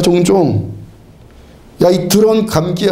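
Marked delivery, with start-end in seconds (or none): 1.8-2.9 lightly voiced scolding of a cold; mock angry rebuke. Shown as a demonstration. Preacher scolding his cold as an evil spirit, mild mock anger. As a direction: scold the illness as if it were a person. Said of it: "화를 벌컥 내면요".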